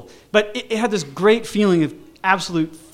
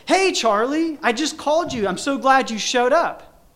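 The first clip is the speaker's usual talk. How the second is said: much higher, gushing hello; excited friend's voice; 9 semitones higher than usual. Retold or imitated. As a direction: greet him like you planned it. Old schoolmate Mel greets him.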